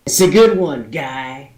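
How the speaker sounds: lightly voiced dwarf, jovial; gruff dwarf joking. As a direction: clap him on the shoulder with a laugh. Dwarf jokes with a stranger.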